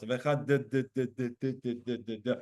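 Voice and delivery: "Echad" with quiet repeated d- d- d-; mock wrong dalet; stuttered dalet. Shown as a demonstration. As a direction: knock the d again and again, fading. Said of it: "making up a new word that has multiple Dalets".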